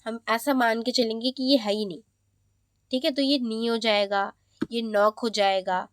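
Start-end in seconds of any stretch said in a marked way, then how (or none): 3.4-3.7 initial K dropped, "नी" starts on N; silent K. Shown as a demonstration. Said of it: "नहीं pronounce करेंगे". 4.8-5.2 "नॉक" starts straight on N; silent K. Shown as a demonstration. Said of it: "नहीं pronounce करेंगे".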